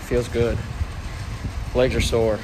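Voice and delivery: muffled behind a mask; talking through a mask; through a face mask. Real, not acted. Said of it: "how well you can hear me through this mask".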